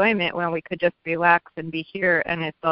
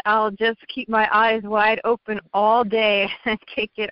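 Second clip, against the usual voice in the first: smiling voice. Real, not acted. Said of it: "I can hear the smile in your voice".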